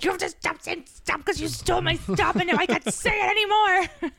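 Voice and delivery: high, whiny playful complaint, rising near the end; mock annoyed rant. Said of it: "I was like".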